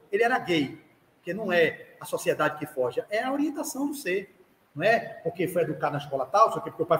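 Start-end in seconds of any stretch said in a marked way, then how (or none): none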